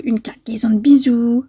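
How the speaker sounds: breathy whisper of the stamp words. Real, not acted. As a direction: read it under your breath. Reads stamp wording aloud.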